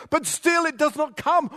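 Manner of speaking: loud, high despairing cry, the word come stretched out; howl of pain. Acted. Preacher reading the psalmist's lament, loud anguished howl. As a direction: cry it out as if help will never arrive. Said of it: "drawn-out howl of pain".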